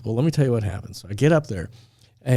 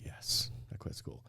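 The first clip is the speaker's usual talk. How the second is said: slow, barely audible sheepish admission; embarrassed whisper; 18 dB quieter than usual. Retold or imitated. Student admitting to the registration lady he quit, embarrassed whisper. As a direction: whisper it, imitating an embarrassed confession.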